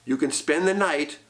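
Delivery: a hint of a low sly old farmer; understated creepy little man; lightly voiced strange little man. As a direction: make the deal slyly and low.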